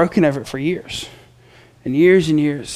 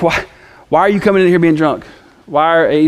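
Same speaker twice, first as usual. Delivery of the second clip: mock stern priest; 3 semitones higher, 4 dB louder than usual. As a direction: press her like a bouncer, half-playful. Priest pressing her.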